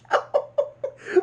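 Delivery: very high, breaking laugh; real high-pitched laughter. Real, not acted. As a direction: crack up in a high wheeze. Cracks up recalling the intro.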